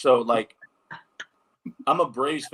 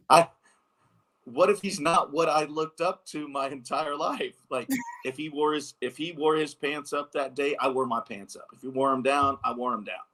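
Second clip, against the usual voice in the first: higher-pitched, mildly anxious retelling; retold nervous worry; 4 semitones higher than usual. Player confessing fears to his dad about meeting his idol, mildly nervous. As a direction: replay your worried plea to dad, lightly. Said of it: "I'm scared".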